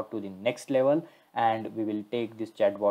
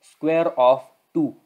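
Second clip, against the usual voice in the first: louder, higher and slow, called out to the machine; loud slow command; 6 semitones higher, 9 dB louder, slower than usual. Real, not acted. Testing the chatbot again, loud, slow and high. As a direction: raise your voice so the assistant hears.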